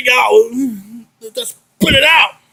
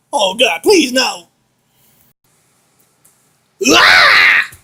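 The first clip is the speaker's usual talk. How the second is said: terrified horror victim; much slower than usual. Acted. Victim thrown into box.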